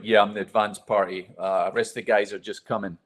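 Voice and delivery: retelling the fake confident American voice he found himself using; mock deep American voice. Rookie to the police chief, faking a deep American accent. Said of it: "in my deepest voice for a twenty-four-year-old ... I was American".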